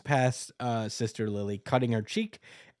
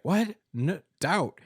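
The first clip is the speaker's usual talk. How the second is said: high, loud, outraged denial; indignant disbelief; 9 semitones higher, 6 dB louder than usual. Retold or imitated. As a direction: shout it like a hotheaded hero. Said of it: "Asta's like".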